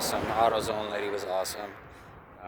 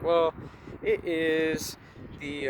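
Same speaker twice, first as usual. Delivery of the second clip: put-on light girlfriend voice; 8 semitones higher, much slower than usual. Ex-girlfriend giving car advice, lightly voiced. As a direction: voice Ashley lightly.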